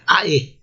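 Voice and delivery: "ae" as two distinct vowels; separated vowels. Shown as a demonstration. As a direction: say "ae" as A, then E.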